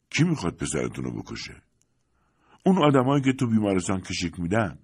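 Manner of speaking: urgent, worried plea for her son, lightly acted; a hint of a dying old woman begging; lightly voiced old woman.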